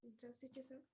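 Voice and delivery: faint, far-off voice on the call; very low, hard to hear; barely audible. Real, not acted. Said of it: "your voice is very low".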